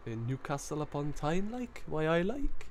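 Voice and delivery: mock Geordie lilt climbing high at the end; attempted Geordie accent. Streamer describing the Tyne Bridge, mock Geordie accent. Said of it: "put on your Geordie voice now".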